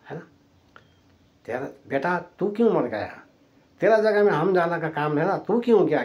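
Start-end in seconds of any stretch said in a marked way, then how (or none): 1.5-6.0 विलाप की नकल, ऊँचा स्वर; retold wailing lament. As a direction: imitate a grieving mother's protest, pitch lifted. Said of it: "कैसा विलाप था". (बिलखती माँ की हल्की नकल)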